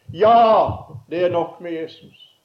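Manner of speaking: loud, high answer shouted over the waves; called reply. Retold or imitated. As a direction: shout it back from the water to reassure him. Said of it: "Så svarer hun i bølgeskvulpet".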